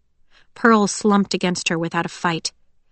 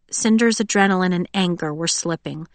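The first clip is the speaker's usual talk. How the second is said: plain reading voice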